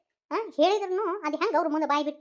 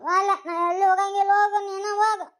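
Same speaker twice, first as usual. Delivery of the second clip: wailing refusal; 4 semitones higher, 3 dB louder than usual. Acted. Daughter refuses, wailing sing-song.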